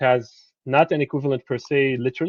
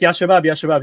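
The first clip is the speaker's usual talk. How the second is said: Ya Shabab called out a little higher and louder, as if to a rowdy group; imitating a calm-down call; 4 semitones higher, 5 dB louder than usual. A lecturer imitating the tailor calling out Ya Shabab to calm them. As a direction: call Ya Shabab Ya Shabab to settle the men. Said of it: "So when he's like".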